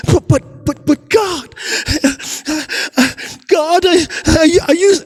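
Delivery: high, frantic begging; panicked pleading. Acted. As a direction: beg for rescue in panic. Climber shocked by God's command.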